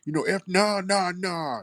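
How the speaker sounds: lightly mimicked protesting caller; imitating caller's denial. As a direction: rattle off a mock denial. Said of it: "I said, "Dude, I can kinda hear".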